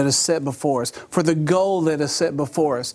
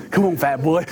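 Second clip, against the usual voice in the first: taunting dog voice. Retold or imitated. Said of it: "'cause I speak dog".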